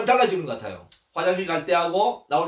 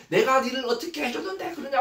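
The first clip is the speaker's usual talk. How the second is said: mock catfight; 5 semitones higher than usual. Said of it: "서로 머리 끄댕 잡고".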